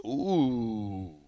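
ordinary delivery

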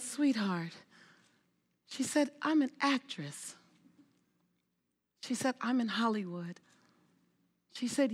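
a touch of a tender, reassuring voice; gentle, tender. Retold or imitated. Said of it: "with the most gentle, beautiful hand".

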